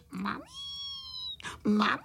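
acted childish wail; wailing for mum. A narrator's reading. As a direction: bawl for mum like a little one. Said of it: "brečeli na celé kolo a volali".

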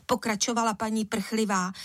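usual speaking voice

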